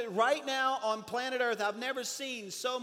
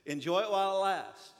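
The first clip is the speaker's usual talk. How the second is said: laughing; 3 dB louder than usual. Retold or imitated.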